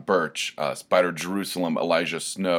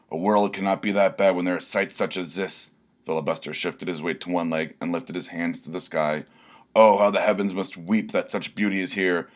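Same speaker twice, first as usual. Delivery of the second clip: rapturous barbarian. Acted. Barbarian praises the waterpark, rapturous declaiming. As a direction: proclaim it like an epic hero. Filibuster's ode to the pool.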